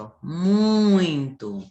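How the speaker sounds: muito drawn out, the ui glided together; very slow model word. Shown as a demonstration. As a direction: stretch muito slowly. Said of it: "do mesmo jeito". (muito bem lento)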